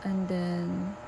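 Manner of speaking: soft late-night whisper, everyone asleep. Real, not acted. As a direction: keep it hushed so nobody wakes. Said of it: "I'm whispering 'cause everyone is asleep".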